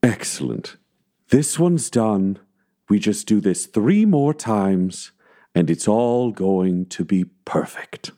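slow, eerie voice sinking into a whisper; Ezra's voice. Acted. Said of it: "hear the voice of Ezra speak through Tyler".

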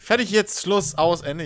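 loud, wired over-caffeinated burst; jittery from too much coffee; too much caffeine. Real, not acted. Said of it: "Ich hab zu viel Kaffee".

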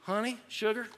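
light mock Southern accent; little southern accent. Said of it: "with a little southern accent, like".

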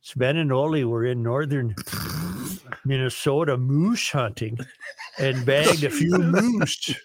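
hammed-up Norwegian accent; worst Norwegian voice. Host reading a listener's moose joke, worst Norwegian accent. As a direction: tell it in a bad Norwegian voice. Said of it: "use your worst Norwegian voice".

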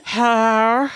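lightly voiced creepy visitor; Barbara voice. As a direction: call out coyly at the window. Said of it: "Julie does Barbara".

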